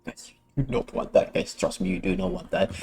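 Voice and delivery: whispered shushing; whisper, don't wake anyone; quiet at night. Real, not acted. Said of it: "I have to be a little more quiet".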